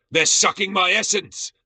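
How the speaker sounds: high, loud melodramatic wail; hammed-up panic. A narrator's reading. Fallen warrior rolling on the ground, loud melodramatic wail. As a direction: wail it as if dying.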